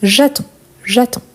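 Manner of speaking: j'attends said "ja-tan" twice, final D and S dropped; silent D and S. Shown as a demonstration. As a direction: demonstrate j'attends with a bare nasal ending. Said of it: "on ne les prononce pas, ni D, ni S".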